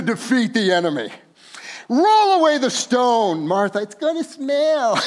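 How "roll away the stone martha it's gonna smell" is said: loud, high warrior command; commanding Jesus. Acted. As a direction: order it like a warrior defeating the enemy.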